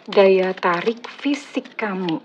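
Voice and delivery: slow, drawn-out words for suspense; a slow, teasing reveal for the viewer; slow teasing repeat. Shown as a demonstration. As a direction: stretch out "Daya tarik fisik kamu" slowly to build suspense. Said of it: "Wah, ini yang seru nih ya".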